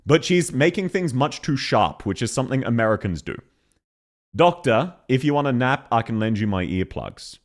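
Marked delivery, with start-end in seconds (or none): 4.3-7.4 natural Aussie delivery, relaxed vowels; proper Australian accent. Shown as a demonstration. Aussie streamer demonstrating the real way, in a natural Australian accent. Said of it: "That is how an actual Aussie would say it".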